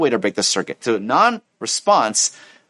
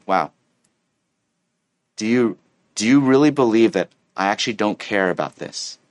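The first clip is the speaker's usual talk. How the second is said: calm, sincere disbelief; gentle question; 4 semitones lower than usual. Acted. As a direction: ask gently, without heat. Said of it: "be a gentle response".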